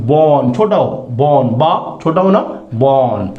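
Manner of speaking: बॉर्न said as a slow clear long O model; teacher's model word. Shown as a demonstration. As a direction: spell out बॉर्न slowly for students. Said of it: "ये अब ऊपर की तरफ जैसे बॉर्न". (शिक्षक की तरह बॉर्न का स्पष्ट उच्चारण)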